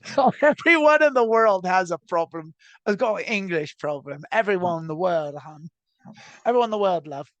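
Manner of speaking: a hammed-up British accent, lightly done; mock British, tossing off hon and love; bad British accent. Joking with a friend about the world's English problem, in a bad British accent. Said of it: "just looking for an excuse to do my bad British accent".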